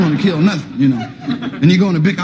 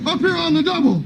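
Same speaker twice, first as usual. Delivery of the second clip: high, slow, deliberate drill sergeant; menacing sergeant; 10 semitones higher, 3 dB quieter, slower than usual. Retold or imitated. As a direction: savor every threat slowly. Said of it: "the sergeant would be bad".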